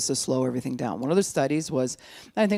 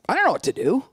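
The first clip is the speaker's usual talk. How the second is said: higher and louder, exasperated outburst; 9 semitones higher, 6 dB louder, faster than usual. Acted. Recovering couple stuck trying to communicate, exasperated. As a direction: throw it out, at a loss. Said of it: "we'd look at each other and be like".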